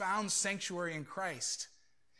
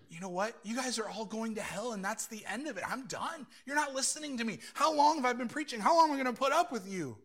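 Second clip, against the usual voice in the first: fed-up rebuke; 4 semitones higher than usual. Acted. Imagined Jesus giving up on people who won't listen, fed-up rebuke. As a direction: act out a preacher at the end of his patience.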